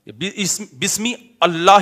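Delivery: halting بسم, then اللہ begun afresh as "allah"; broken reading demo. Shown as a demonstration. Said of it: "ہی تھوڑی ہے". (بسم اللہ اٹک اٹک کر، الگ الگ)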